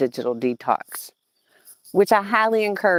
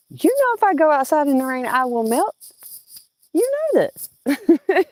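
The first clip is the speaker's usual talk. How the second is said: hammed-up high whine about melting; teasing Farmer Chad with mock drama, high-pitched; mock dramatic foolishness; 10 semitones higher, 3 dB louder than usual. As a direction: play the fragile diva, lightly. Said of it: "he lets me act foolish".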